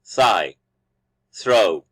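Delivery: "Thigh, throw" with tongue between the teeth, no vibration; air-only TH starting "Thigh" and "throw"; voiceless TH. Shown as a demonstration. Teacher demonstrating the interdental sound, voiceless TH in "Thigh, throw". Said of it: "And it's voiceless".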